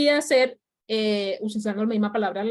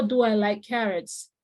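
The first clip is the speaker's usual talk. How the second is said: slow model question; slower than usual. Shown as a demonstration. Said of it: "Si yo tengo".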